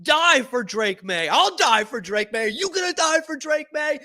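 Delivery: hammed-up, high-pitched pep talk; imagined rallying cry. Lineman rallying teammates to protect Drake Maye, hammed-up war cry. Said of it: "That's what he's gonna be saying".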